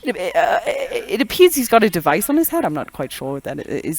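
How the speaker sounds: hesitant, mildly baffled British speaker; British accent. Acted. Renaissance Brit describing the host's strange device, British accent. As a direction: puzzle over it as a Renaissance-era Brit. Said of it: "like a Renaissance era British person".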